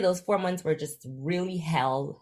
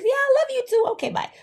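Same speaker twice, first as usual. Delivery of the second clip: laughing; 4 dB louder, faster than usual. Retold or imitated. Hanging up on mom, laughing.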